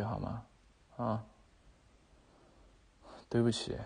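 low, hushed apology at the bedside; soft apology. Acted. Boyfriend soothes girlfriend after yelling.

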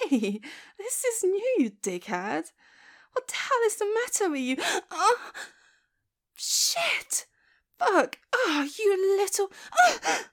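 flustered outburst. Acted. Reacting to sudden rough touch.

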